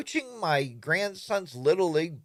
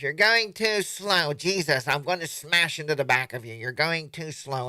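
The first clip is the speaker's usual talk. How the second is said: impatient rider; 3 semitones higher, 5 dB louder than usual. Retold or imitated. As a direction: act fed up with the slowpoke ahead. Impatient group rider complaining.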